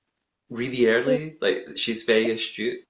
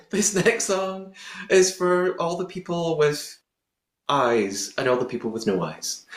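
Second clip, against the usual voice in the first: lightly voiced mock stage announcement, higher; mock announcement by a singer; 5 semitones higher than usual. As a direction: parody a singer's sincere intro, pitched up. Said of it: "Fiona just made me think of that".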